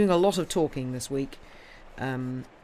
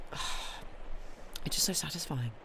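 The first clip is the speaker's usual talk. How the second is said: slow, whispered and much softer; dreamy whisper; 8 dB quieter, much slower than usual. Real, not acted. Gushing to listeners about jigsaws, in a slow dreamy whisper. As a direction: breathe it out savouring the thought.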